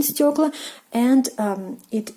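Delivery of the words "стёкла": стёкла said clearly as STYOK-la, stress on the first syllable; Russian pronunciation demo. Shown as a demonstration. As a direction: model стёкла slowly for learners. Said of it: "we have a plural form of it in Russian".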